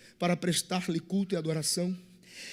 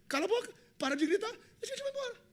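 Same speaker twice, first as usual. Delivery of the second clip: high, hurried, hushed scolding; fast, higher-pitched telling-off; mock shushing; 13 semitones higher, 4 dB quieter, much faster than usual. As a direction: shush her quickly in a raised pitch. Disciples acted shushing the shouting woman.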